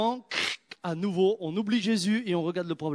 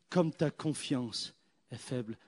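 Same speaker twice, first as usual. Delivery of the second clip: lower, softer, slow gentle rebuke; quiet, lower Jesus voice; Jesus rebuking; 5 semitones lower, 5 dB quieter, slower than usual. Acted. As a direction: correct him softly and slowly.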